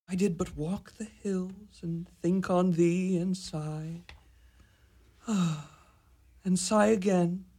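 pine aloud for her; a moony lover musing; lovesick Romeo. Acted.

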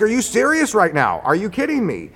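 high-pitched disbelief; retold incredulous protest. Contractor challenging the armed engineer, incredulous protest.

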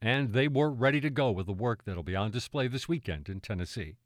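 measured scripted voice-over read; radio narration. Acted. Host sets up the team's performances, polished radio narration. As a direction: narrate the link like a public-radio feature.

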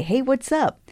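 ordinary talk, nothing marked

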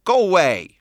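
imitating a bossy parrot; parrot squawk. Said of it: "Carlene squawked".

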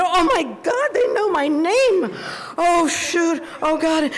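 terrified that they know her name; panicked. Retold or imitated. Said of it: "I think".

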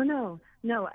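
ordinary delivery

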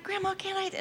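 put-on high, soft begging little-kid voice; pleading child. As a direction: beg like a kid for the bowl. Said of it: "I would just be like".

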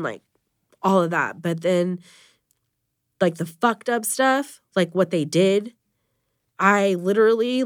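fighting back tears while talking; getting emotional. Real, not acted. Mother describing her brother's death, getting emotional. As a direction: voice rising and tightening with real emotion. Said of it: "I'm getting emotional now".

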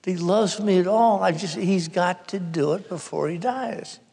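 mildly distraught imitation of a sister; beside herself. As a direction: plead as if upset, lightly acted. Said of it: "she is just beside herself, and she's going".

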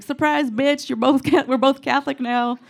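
cheeky triumphant jab at the dog; gleeful taunt. Retold or imitated. Gloating to dog in story.

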